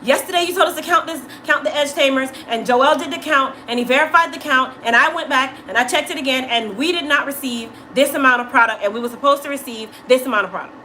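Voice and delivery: mild imitation of an upset coworker; imitating Kat. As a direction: rush it like a frustrated coworker. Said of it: "this is how Kat talks".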